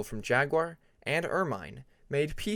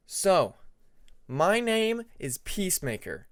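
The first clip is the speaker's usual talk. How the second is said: nervous start; 5 semitones higher than usual. Acted. Nervous student starts presentation.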